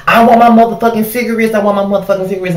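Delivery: imitating a rude customer demanding cigarettes; mock angry customer. Cashier imitates rude customer demanding his cigarettes, mock angry.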